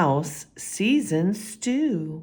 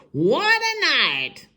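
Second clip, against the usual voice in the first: mole mutters; 8 semitones higher, 4 dB louder than usual. Acted. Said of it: "mole mutters".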